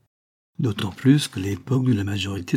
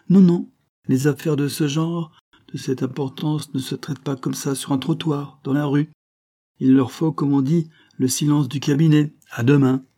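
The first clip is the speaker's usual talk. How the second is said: a higher, lightly voiced sly showman, pleased with himself; mocking showman; 5 semitones higher than usual. The showman teases the count he blackmails, smugly higher. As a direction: play the smug trickster holding all the cards.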